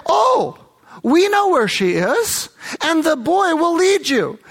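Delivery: high, bright burst of eager news; mock-excited family all talking at once; excited retold exclamation. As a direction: blurt it out like thrilled villagers. Family eagerly offering to help.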